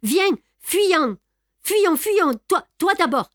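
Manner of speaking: pressant, bien plus haut et plus fort; l'entraîner à fuir, affolé; élan de passion farouche. A narrator's reading. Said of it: "dans un élan de passion farouche". (Lupin presse Raymonde de fuir, passionné et haletant)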